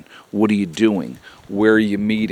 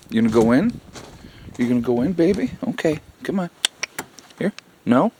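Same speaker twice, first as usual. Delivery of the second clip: coaxing the cat; 4 semitones higher, faster than usual. Real, not acted. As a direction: coax her gently.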